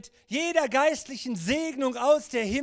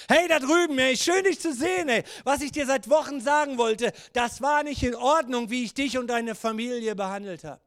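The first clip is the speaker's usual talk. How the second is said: yelling across the room. Acted. Calling across to another.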